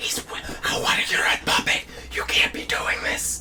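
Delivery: panicked whisper scream, frantic yet very quiet. Retelling how Chris reacted to the puppet, acting out a whisper scream. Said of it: "starts whisper screaming".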